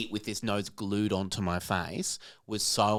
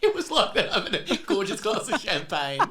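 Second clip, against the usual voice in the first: excited; 9 semitones higher, 4 dB louder than usual. Real, not acted. Gleeful agreement, laughing.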